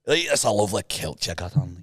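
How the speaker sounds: low Scottish accent. Shown as a demonstration. Host compliments a kilt, Scottish accent. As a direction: demonstrate a casual Scottish accent. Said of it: "but in the accent".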